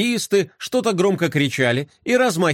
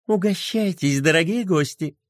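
воркуя; 2 semitones higher than usual. Acted. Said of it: "ворковала она".

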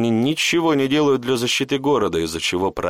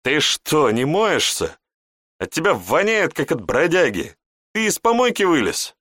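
high, scornful sneer; disdainful; 7 semitones higher than usual. A narrator's reading. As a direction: snort it out with contempt. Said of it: "Шантра фыркнула и пренебрежительно". (презрительно, высоко)

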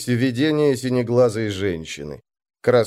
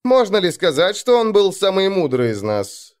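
higher-pitched, innocent-sounding question; feigned innocence; 8 semitones higher, 3 dB louder than usual. A narrator's reading. Moroz asks about the man he felled, mock innocent. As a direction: ask it as if guileless. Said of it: "с невинным видом спросил Мороз".

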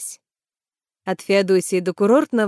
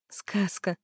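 soft dreamy sigh of a word; 10 dB quieter than usual. A narrator's reading. Sima dreams of the view, much softer. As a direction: breathe it out dreamily. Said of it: "мечтательно произнесла Сима".

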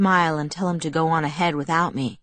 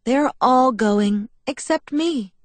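slow, higher mock-tragic lament; forlorn Alice; 6 semitones higher, 4 dB louder, much slower than usual. A narrator's reading. Alice to Charlie, mock-tragic. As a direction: play up being left out. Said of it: "her face suddenly forlorn".

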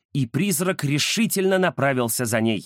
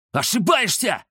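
defiant shout; 6 semitones higher than usual. Acted. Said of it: "крикнул Рамзес".

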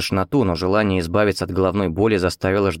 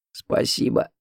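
a hoarse, toneless thanks through a dry throat; 3 dB quieter, slower than usual. A narrator's reading. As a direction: rasp it out, throat parched. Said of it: "прохрипел я". (хриплое «Спасибо» пересохшим горлом)

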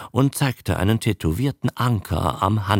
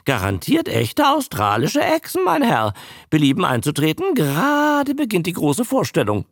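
bawling barker; 5 semitones higher than usual. Acted. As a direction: bawl it out to draw in the crowd. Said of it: "plärrte er".

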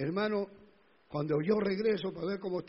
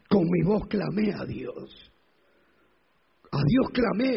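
crying out a psalm; 2 semitones higher, 6 dB louder, slower than usual. Acted. Preacher reading Psalm 77 to the congregation, crying out. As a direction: cry the verse out to God, building. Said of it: "el Salmo setenta y siete".

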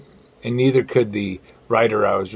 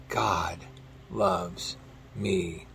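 hushed, awed whisper; 6 semitones lower, 12 dB quieter, much slower than usual. Retold or imitated. Friend hearing God in his heart.

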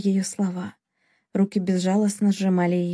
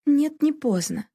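firm; 6 semitones higher, slower than usual. A narrator's reading. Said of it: "решительно произнесла она".

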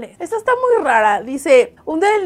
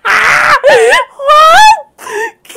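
much higher, much louder shout of disbelief; real stunned yell, much higher and louder; shocked outcry; 13 semitones higher, 12 dB louder, much slower than usual. Real, not acted. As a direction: scream at the outrageous line. Outraged shock at the puppeteer.

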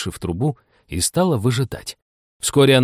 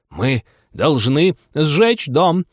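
slow, grave rabbit; lightly voiced rabbit; 5 semitones higher, much slower than usual. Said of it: "сказал голос кролика".

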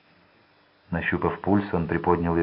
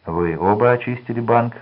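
feigned astonishment, louder and higher; mock surprise; 5 semitones higher, 5 dB louder than usual. A narrator's reading. Гиз pretends to notice the money, mock surprised. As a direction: play-act being amazed. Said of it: "деланное удивление".

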